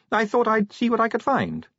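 put-on high, breezy young woman voice; chatty, light-hearted vampire girl. Sally voiced.

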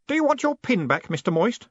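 put-on high, eager young voice; cheerful boy. A narrator's reading. Stanley returning the pin to Moist, cheerful.

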